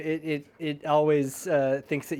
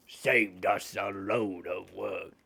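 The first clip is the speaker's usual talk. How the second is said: put-on low, slow Jamaican accent; 9 semitones lower, 5 dB quieter, slower than usual. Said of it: "one of these guys is Jamaican".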